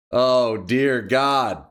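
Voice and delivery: slow, drawn-out mock despair. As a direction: stretch it out like a groan of defeat. Mourning lost streaks.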